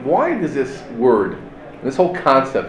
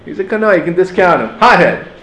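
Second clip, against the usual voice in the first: dismissive; 4 semitones higher than usual. Retold or imitated. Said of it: "we use it in a negative concept".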